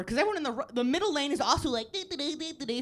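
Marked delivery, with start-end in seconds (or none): 1.9-2.8 softer, vacant sing-song dee-dee; imitated stoned driver. Comic imitating middle-lane drivers, stoned and vacant. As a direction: mimic someone stoned at the wheel. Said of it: "fucking stoned".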